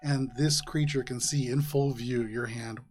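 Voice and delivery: low, hushed scene setting; game master narration. Acted. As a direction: draw the players into the ambush. GM sets a tense scene.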